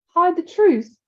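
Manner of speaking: angry James repeating the bully; angry disbelief. Acted. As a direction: throw his words back at him angrily. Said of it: "anger overcoming his caution".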